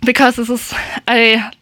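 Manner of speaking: breathless after dancing; short of air, panting a little; out of breath. Real, not acted. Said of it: "sorry, I'm a little bit out of breath".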